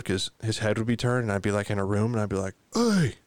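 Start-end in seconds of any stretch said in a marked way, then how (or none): 2.7-3.2 sharp high-pitched shout; retold yell. Owner testing whether the deaf dog hears, yelling. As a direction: call out to get a reaction. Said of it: "when you yell real loud".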